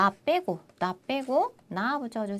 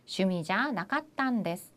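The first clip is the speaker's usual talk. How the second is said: slow model answer; slower than usual. Shown as a demonstration. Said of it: "그러면 뭐라고요".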